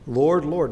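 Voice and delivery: "Lord, Lord" called out loud and firm; an urgent emphatic "Lord, Lord". Shown as a demonstration. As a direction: cry "Lord, Lord" with strong emphasis. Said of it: "it's emphatic in that regard".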